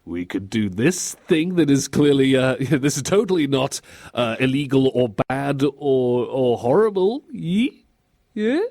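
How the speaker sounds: halting, coaxing, rising at the end; mock-innocent persuasion; fake innocence. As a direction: pitch it through a suspicious smile. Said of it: "suspicious smile someone puts on to kinda make them look innocent".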